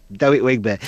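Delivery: DEREK said as "Dewek", R turned to W; Jonathan Ross speech impediment. Retold or imitated. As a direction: swap the R in DEREK for a W. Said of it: "did a Jonathan Ross thing".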